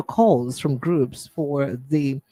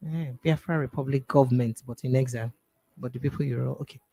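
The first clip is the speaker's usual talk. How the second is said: thinking out loud; 4 dB quieter than usual. Real, not acted. Host puzzling over terms in the bulletin, thinking out loud. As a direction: puzzle over the wording, half to yourself. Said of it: "I was thinking out loud".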